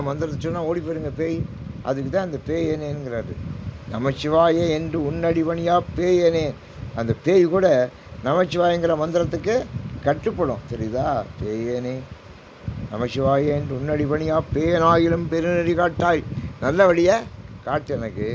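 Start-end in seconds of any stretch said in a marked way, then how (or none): 3.9-6.5 drawn-out devotional intoning; slow verse recitation. Acted. 12.9-16.2 measured devotional chanting of the verse; verse recitation. Acted.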